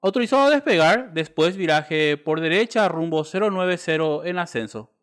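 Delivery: tinny air traffic radio; crackly military radio. Shown as a demonstration. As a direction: read it like a tower clearance over the radio. Tower clearance read over radio.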